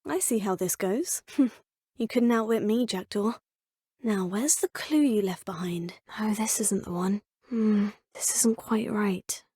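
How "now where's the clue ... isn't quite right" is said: hushed whisper while searching; murmured whisper, thinking aloud; whispering to self. Acted. Searching alone for a hidden clue.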